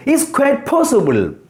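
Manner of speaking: QUITE as one joined "kwait"; QUITE pronounced together. Shown as a demonstration. Teacher showing one syllable in use, QUITE pronounced together as one beat. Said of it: "together pronounced".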